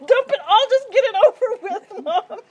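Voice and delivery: loud high urgent shout from cold; in ice cold water. Real, not acted. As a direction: yell it out, freezing and impatient. Cold water, urging mom.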